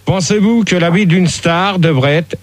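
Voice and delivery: slow, deliberate question read like a TV host; pretend talk-show host. Pretend host asks the panel the question in a slow, formal manner. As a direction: pose the show's question to the guests, slowly.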